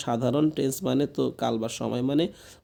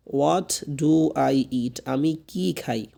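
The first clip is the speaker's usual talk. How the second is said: What do I eat stretched very slowly; drawn-out classroom model of What do I eat; slow model question; much slower than usual. Shown as a demonstration. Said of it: "teacher models question sentence". (খুব ধীরে টেনে বলা প্রশ্ন)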